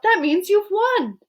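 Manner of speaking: high, slow delighted announcement; excited. A narrator's reading. Wonka telling Charlie he has won, thrilled. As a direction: savour the news of the win. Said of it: "he cried out".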